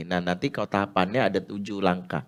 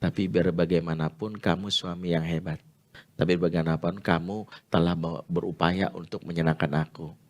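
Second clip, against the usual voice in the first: warm praise; 4 semitones lower than usual. Shown as a demonstration. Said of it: "penguatan apresiasi".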